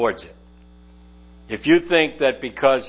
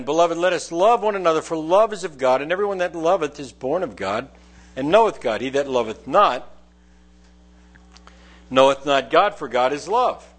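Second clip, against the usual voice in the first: raised, solemn reading of the verses; scripture reading; 3 semitones higher than usual. Acted. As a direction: proclaim the verses to the congregation. Reads verses seven to eight.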